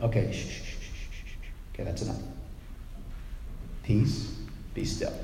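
put-on gentle parent soothing a toddler; parent shushing a toddler. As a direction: hush a panicking child to sleep. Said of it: "like a parent saying to a toddler who's freaking out".

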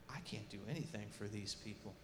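low, hushed realisation; helpless admission. Retold or imitated. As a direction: drop right down, as if admitting defeat.

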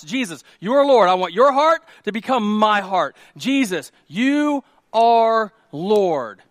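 loud, drawn-out preacher's proclamation; fervent declaration. Acted. Believer surrenders to Jesus as Lord, fervent declaration. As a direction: declare surrender to God with force.

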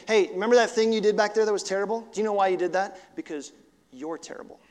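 jab like the inner voice of shame. Acted. Preacher voicing shame taunting, fast then sinking to a hush. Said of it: "Shame goes".

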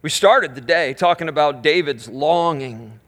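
slow hushed prayer. Acted. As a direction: pray it out gently. Prayer continues.

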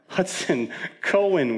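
put-on calling for children. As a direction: re-enact calling out names for lost kids. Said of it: "I was calling for them".

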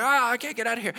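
high, loud desperate cry; trapped frog calling out in panic; frog yelling for help. Retold or imitated. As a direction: yell it up from the bottom of the pit. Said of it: "they're yelling".

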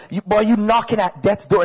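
mom's Bajan accent, imitated. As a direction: say it like a Bajan mother. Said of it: "That was a Bajan accent".

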